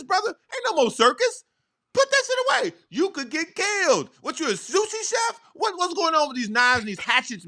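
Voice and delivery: high-pitched comic telling-off; exasperated scolding. Pretend. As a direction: scold him in rising disbelief. Comic scolding of man with knives.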